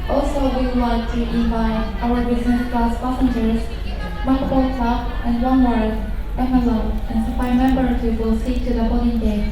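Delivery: steady, even boarding call; airport announcement. Real, not acted.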